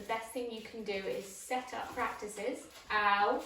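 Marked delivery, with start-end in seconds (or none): 2.9-3.4 short, loud yelp of pain; a sudden real ouch. Real, not acted. Trainer bitten by puppy Rolo: sharp real ouch. Puppy bites her hand.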